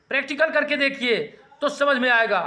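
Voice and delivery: quick, laughing nudge to go practise; chuckling while urging students to try it; laughing encouragement. Real, not acted. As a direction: laugh through the advice.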